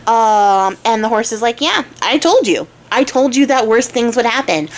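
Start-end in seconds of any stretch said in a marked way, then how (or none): 1.6-4.7 mildly exasperated, pitch jumping up then settling; mock scolding with a lifted start; acted I-told-you-so. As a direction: rub it in, lightly acted. Horse says I told you so.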